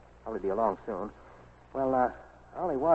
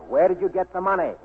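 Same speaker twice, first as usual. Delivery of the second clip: louder, pressing the question hard; no more games, make him answer; firmer demand; 2 semitones higher, 6 dB louder than usual. Acted. Nick presses Ollie about the money, louder firm demand. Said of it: "I'll try it again".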